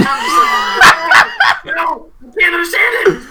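high, loud cry of a baffled student; exasperated mock shout. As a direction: shout it in hammed-up frustration. Exasperated student giving up on imitation.

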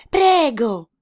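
high, loud squeaky welcome; squeaky mouse. A narrator's reading. Mouse inviting the frog, squeaky=31. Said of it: "disse allora il topo".

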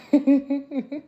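beaming, with a laugh in the voice; smiling voice. Real, not acted. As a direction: let the smile come through. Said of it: "if you can hear my smile".

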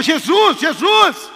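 high, loud acted cry for Jesus; desperate shout. Shown as a demonstration. Preacher demonstrating the woman calling Jesus, desperate shout. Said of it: "vai, desespero".

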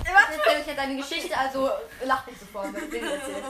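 giggling through the words; laughing. Real, not acted. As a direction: laugh while talking.

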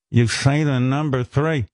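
slow, incredulous repeat; disbelieving mother. Retold or imitated. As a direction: imitate mother's drawn-out disbelief, lightly voiced. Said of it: "she would have taken that right away".

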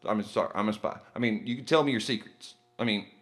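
bad spy voice. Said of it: "Jimmy Bond".

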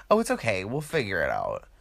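sweet reassurer. Retold or imitated. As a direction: soothe the table like a nice friend. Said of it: "some nice person you're with is like".

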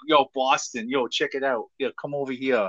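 lightly put-on Boston accent. Host mimicking Boston girls hailing someone, Boston accent. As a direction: imitate Boston locals calling someone over. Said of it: "I love Boston accents".

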